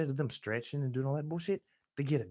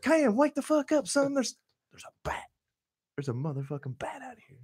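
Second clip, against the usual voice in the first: urgent yell; 12 semitones higher than usual. Retold or imitated. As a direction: yell to wake him up. Urgently waking friend about bat.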